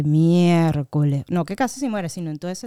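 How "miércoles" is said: long drawn-out, louder exclamation; retold shock. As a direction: stretch it out in mock dismay. Retold shock at sister nearly dying.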